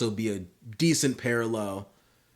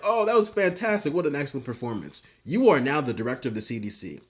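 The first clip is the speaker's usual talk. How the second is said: mock praise; 3 semitones higher than usual. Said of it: "Homelander's like".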